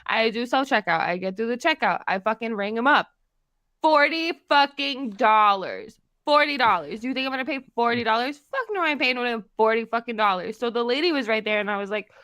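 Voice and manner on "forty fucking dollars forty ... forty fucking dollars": indignant, drawing out the first shock; outraged disbelief. Retold or imitated. Telling a friend about the checkout shock, indignant. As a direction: balk at the price in mild outrage.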